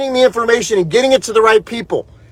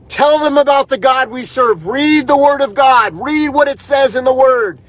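raised, insistent preacher's urging; fervent exhortation; 3 semitones higher than usual. Real, not acted. Host urges viewers to keep fighting and read the Word, fervent. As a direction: exhort them in short, emphatic phrases.

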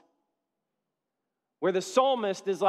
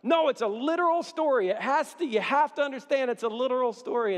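raised, insistent voice of the stubborn man; 6 semitones higher than usual. Retold or imitated. Pastor retelling a stubborn man insisting on the literal story, raised and insistent. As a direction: argue it like a man who won't budge.

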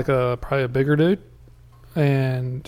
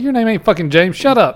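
mock annoyed retort; 5 semitones higher, 4 dB louder than usual. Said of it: "I'm like".

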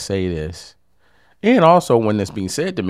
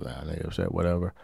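calm, not upset; 4 dB quieter than usual. Shown as a demonstration. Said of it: "The best way I can do it without being upset".

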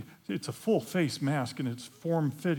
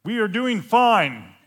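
stiff, slow, rehearsed reply; a slow, louder, wooden read; reading from a cue card; 4 semitones higher, 8 dB louder than usual. Retold or imitated. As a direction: recite it like scripted lines. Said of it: "like he's reading from a cue card".

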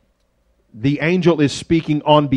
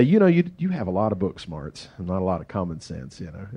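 mild gentle teasing; 7 semitones lower, 7 dB quieter than usual. Retold or imitated. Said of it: "But she'd say".

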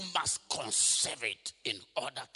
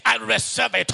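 shouting with conviction; 7 semitones higher, 14 dB louder than usual. Shown as a demonstration. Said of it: "Say that like you meant it".

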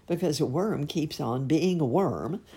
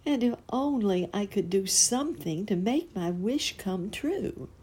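sighing wish; 7 semitones higher than usual. A narrator's reading. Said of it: "he sighed".

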